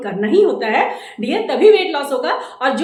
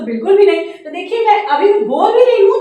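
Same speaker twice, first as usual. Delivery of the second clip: loud talking; 5 semitones higher, 7 dB louder than usual. Real, not acted. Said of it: "जैसे मैं चिल्ला रही हूँ".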